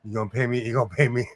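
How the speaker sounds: low, pointed "You gonna pay me?" to a cashier; mock demand. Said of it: "I'm gonna ask you".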